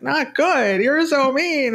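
high, hurt little girl voice, imitated; daughter's voice. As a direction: play the sulky seven-year-old daughter, pitched well up. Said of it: "And she's like".

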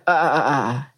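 short repeated "uh" grunts; imitated pushing grunts. Describing the urge to push to listeners, imitated grunts. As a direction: mimic the body pushing by itself.

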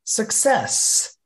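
high, drawn-out success; bright reveal. Real, not acted. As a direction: land the word like a prize. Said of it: "you know what pops out".

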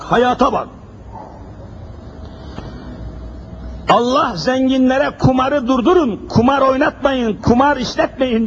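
high, ringing pulpit preaching; fiery preaching. Acted. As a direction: preach it out to the congregation. Sermon raised to full force.

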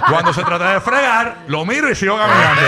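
laughing high and loud through it. Retold or imitated. Host mocking cohost who avoids dishes, laughing loud. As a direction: crack up while telling it.

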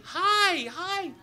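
high, loud repeated yell; urgent shouted warning. Retold or imitated. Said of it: "He's pointing behind me".

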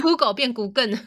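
先说 Google 再念成 kukən; plain Google, then the end turned into N; Google then Thai Googen. Shown as a demonstration. (对比：Google 变 Googen，L 变 N)

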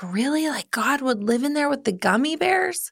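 a hint of a wide-eyed child; little boy. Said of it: "And he was like".

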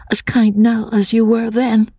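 high, breathless whispered woman's voice; murmured whisper. A narrator's reading. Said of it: "she murmured".

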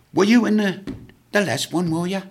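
put-on loud old guardsman. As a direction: bellow across the bar like a proud guardsman. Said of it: "He said".

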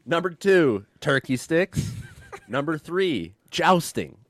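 slow, high, grand listing; hammed-up enthusiasm. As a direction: announce each like a prize. Listing medieval joys, hammed.

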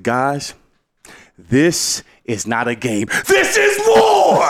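rally the team, rising to a yell; locker room war cry. Retold or imitated. Coach firing up players before the rivalry game, building shout. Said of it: "I said".

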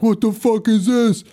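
hammed-up startled guests; mock freak-out. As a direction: jump like you just got spooked. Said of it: "Everyone freaks out. They're like".

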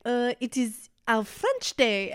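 slow, searching mock explanation; halting explanation. Frenchman explaining Bastille Day to tourists, slow and halting. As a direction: grope slowly for the words, imitating a foreigner. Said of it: "He was trying to explain to us".

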